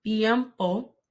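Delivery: "tiempo" with tongue between the teeth; soft T. Shown as a demonstration. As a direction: soften the T of "tiempo" almost to a th. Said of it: "placing my tongue between my teeth".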